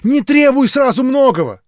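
high, loud preachy rebuke; shrill sermon-like retort; firm objection. A narrator's reading. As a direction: correct him like a zealot. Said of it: "возразила она".

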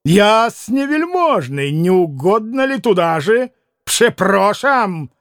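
slow, grandly polite invitation; drawn-out ceremonious call; mock-courteous exclamation. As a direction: usher them out with exaggerated courtesy. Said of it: "воскликнул к маленькому пану".

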